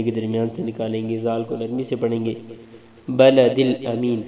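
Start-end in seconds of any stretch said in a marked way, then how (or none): 3.1-4.2 teacher demo of الامین; light hamza. Shown as a demonstration. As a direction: say امین from the throat lightly. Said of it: "حمزہ کو امین".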